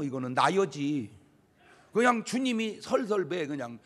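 usual speaking voice

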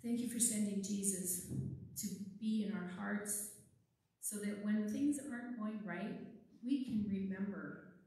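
put-on gentle, steady children's prayer. Leads a closing prayer.

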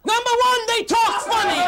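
first blurt. Acted. Pundit blurting his complaint at the debate host. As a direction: snap out "they talk funny" loud and high. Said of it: "In case they didn't hear it".

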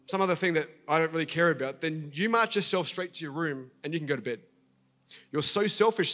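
retold scolding of a pushy kid; father losing his temper at his son, told in a sermon story; angry retold father. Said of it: "The father flew off the handle".

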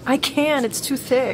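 high, strained protest without shouting; panicked protest. Acted. Jasmine failing to cut the web, panicked. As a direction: protest helplessly, pitch jumping up. Struggling to cut him free.

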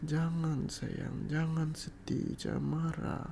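slow, gentle coaxing; tender soothing. Acted. Asking a sweetheart not to be sad or angry, tender soothing. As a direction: soothe them slowly, drawing the words out.

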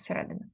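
a quiet check of the stress in "середина"; stress placement in середина. Shown as a demonstration. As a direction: show where the stress falls in "середина". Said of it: "так, сюди наголос".

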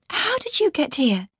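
high, relieved question; thankful question. A narrator's reading. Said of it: "she said thankfully".

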